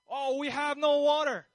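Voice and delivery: high, loud mock whine of complaint; grumbling. Israelites complaining to Moses in the desert, mock grumbling. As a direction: whine it like a fed-up crowd. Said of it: "they're grumbling all the time".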